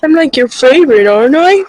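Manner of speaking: cutesy imagined animal voice; voicing the sheep. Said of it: "And she's like".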